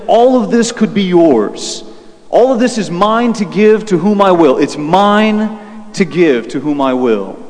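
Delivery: slow, grand tempter's offer; preacher lightly voicing a tempter, drawn out; lightly voiced Satan. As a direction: dangle the offer slowly, phrase by phrase.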